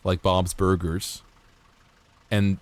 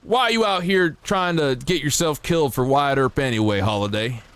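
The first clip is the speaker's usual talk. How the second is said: quoting Tombstone; 4 semitones higher than usual. Retold or imitated. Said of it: "what was it?".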